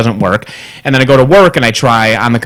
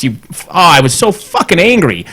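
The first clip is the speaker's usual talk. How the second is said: ordinary delivery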